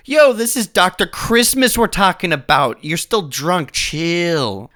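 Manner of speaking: somewhat high, casual warning; a hint of a laid-back pal calming a drunk; lightly voiced Droopy Cheeks. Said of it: "But Droopy Cheeks is like".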